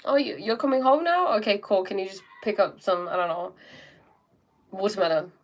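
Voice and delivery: casual friendly phone chat; breezy hello settling into an easy request; loving, calm tone. Acted. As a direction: switch to sweetly chatting with your sister. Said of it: "in a perfectly loving, calm tone".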